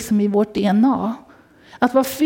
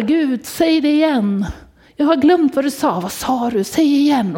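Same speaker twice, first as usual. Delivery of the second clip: pleading call to God; 4 semitones higher than usual. Retold or imitated. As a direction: cry out to God asking him to repeat. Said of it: "Man ropar".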